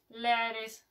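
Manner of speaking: a light, slow put-on Irish accent on ladies; hint of a mock Irish accent. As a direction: drawl ladies like a playful Irishwoman. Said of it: "that's my Irish accent".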